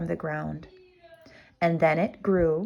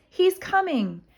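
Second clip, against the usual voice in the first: much higher alarmed cry; 11 semitones higher than usual. Acted. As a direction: panic as the floor shakes. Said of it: "cried the giantess".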